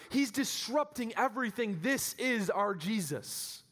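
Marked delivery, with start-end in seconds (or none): none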